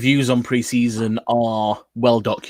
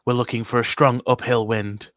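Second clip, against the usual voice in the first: hushed golf commentary; light mock golf announcer; golf commentator. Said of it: "it's the golf voice".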